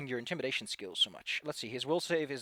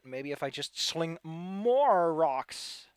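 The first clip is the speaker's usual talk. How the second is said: voiced enemy reasoning; much slower than usual. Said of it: "This one over here is like".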